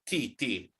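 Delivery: "T, T" said softly as isolated crisp T sounds; "T, T" as quiet, separate, crisp consonant taps; emphasized T sound. Shown as a demonstration. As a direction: model the bare T sound twice. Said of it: "Emphasize the T".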